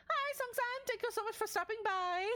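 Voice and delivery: high bright chat greeting; cheerful greeting. Real, not acted. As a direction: greet them sky-high and bubbly. Greeting a chatter.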